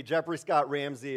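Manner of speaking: calling out Jeffrey Scott Ramsey like an angry mom; mom's full-name scold. Retold or imitated. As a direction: lean on Scott like a mother in trouble mode. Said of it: "She used all three".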